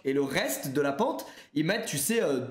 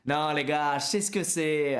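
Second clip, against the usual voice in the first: put-on French with a faint American accent; 4 semitones lower than usual. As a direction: put on a slight American drawl. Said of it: "je réchoppe un accent américain quand je dis ça".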